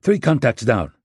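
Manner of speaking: a distant, different voice on the radio; a teammate reporting over the earpiece. Acted.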